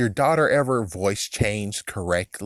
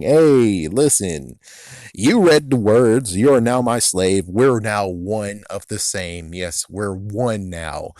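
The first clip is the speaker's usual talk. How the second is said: slow, lightly voiced menacing villain; a hint of a commanding villain, measured and drawn out; mock villain confrontation; 3 dB louder, slower than usual. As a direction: open loud, then lay down the claim slowly. Villain confronts and claims his slave.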